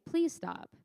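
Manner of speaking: pleading please. Retold or imitated. Preacher showing how Jesus did not plead with the storm. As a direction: ask it nicely, almost begging. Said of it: "He didn't say".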